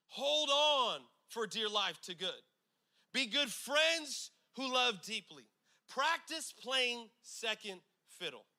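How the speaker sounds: slow, weighty Bible reading; scripture reading. Acted. Pastor reading Romans twelve to the church, slow and weighty. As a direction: let every command land slowly. Reads scripture slowly to congregation.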